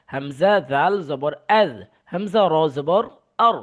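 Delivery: measured Quran-class spelling drill; name each letter and vowel, then land on the joined syllable; spelling drill recitation. Shown as a demonstration. Teacher leading students through jazm spellings, spelling drill recitation.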